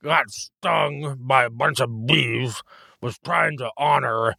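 slow, mushy through puffy lips; words blurred by swollen lips. Real, not acted. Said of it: "You sung to a bunch of beef?".

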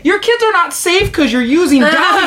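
high and loud, laughing through it; laughing rant. Real, not acted. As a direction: laugh while mocking the ad. Ranting with laughter.

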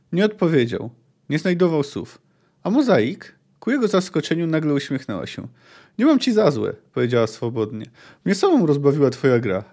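reading a novel aloud, steady and measured; story narration. A narrator's reading. Reviewer reading the market scene to viewers, narrating. Reads the book passage aloud.

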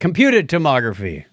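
"Computed tomography" said carefully, stressing "computed"; correct term said. Shown as a demonstration. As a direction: spell out "Computed tomography" clearly. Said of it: "and not chromatic".

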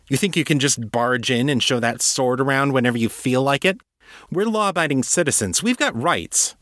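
put-on a defiant young woman squaring up to an intruder; indignant succubus.

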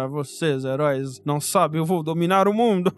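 low, hammed-up cartoon villain threat; mustache twirling villain. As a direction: ham up the evil overlord speech. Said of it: "ele era só aquele vilão".

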